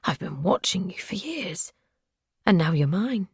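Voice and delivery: a possessive stalker half whispering. Acted. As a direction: hush it like he owns her. Captor speaks softly to captive.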